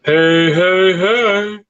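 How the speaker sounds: cartoon catchphrase impersonation; Fat Albert. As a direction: play the cartoon character's drawn-out call. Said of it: "Fat Albert".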